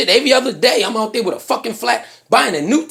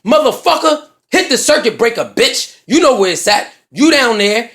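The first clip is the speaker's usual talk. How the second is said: yelling down; 2 semitones higher than usual. Retold or imitated. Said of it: "Then I'ma yell down".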